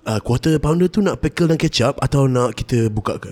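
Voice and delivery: smooth radio DJ delivery; radio announcer voice. Acted. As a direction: announce it like an old Malay FM host. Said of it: "Kenapa suara kau macam ni? I kat radio ke sekarang?".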